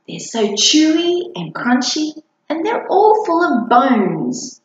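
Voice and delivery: a little monster whining about dinner; whiny monster child. Acted.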